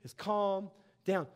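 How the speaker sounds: a hint of a father settling his son; understated fatherly reply, easing off the excitement; lightly voiced calming dad. Dad answering his overexcited son, lightly voiced calming father. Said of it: "And he's like".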